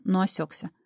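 usual speaking voice

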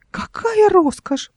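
high slow whispered squeak; squeaky whisper. A narrator's reading. Uncle alone at the box, squeaking. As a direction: squeak in awe. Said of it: "пропищал он".

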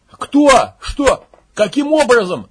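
high, loud yell. Acted. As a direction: scream the questions in shock. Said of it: "заорал Макс".

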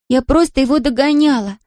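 put-on high young girl repeating her apology; a child begging forgiveness over and over; girl's voice, guilty and pleading. A narrator's reading. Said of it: "покачала головой Мэри".

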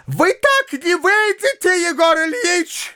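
high, rapid-fire scolding; shrill rattling. A narrator's reading. Widow blocking Yegor Ilyich's exit, high shrill scolding. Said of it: "затрещала она снова".

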